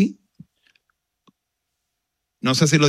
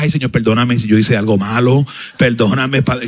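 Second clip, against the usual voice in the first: louder, rushed startled prayer; hasty plea for forgiveness; 7 dB louder than usual. Retold or imitated. Pastor startled by the prophecy, loudly begging forgiveness in mock panic.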